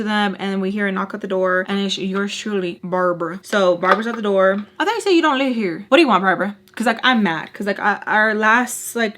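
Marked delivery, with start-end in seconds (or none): 4.8-6.5 louder, sharp annoyed challenge; exasperated, louder; annoyed confrontation. Retold or imitated. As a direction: call her out at the door. Annoyed at Barbara at door.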